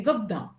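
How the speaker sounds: gubna, governor squeezed into two quick syllables; dialect gubna. Shown as a demonstration. Teacher showing the local gubna for governor. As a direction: say gubna fast and clipped like a local. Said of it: "In some areas, they speak fast, they say gubna".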